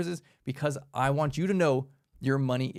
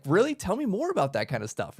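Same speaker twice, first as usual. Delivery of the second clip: excited interest; 4 semitones higher than usual. Retold or imitated. Friend hearing about the mansion, eagerly curious. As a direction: imitate a hooked listener leaning in. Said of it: "get them excited and be like".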